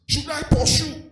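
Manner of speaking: a touch of David calling out to God; voicing David. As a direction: ask it up high like David pleading. David asking God in retold story.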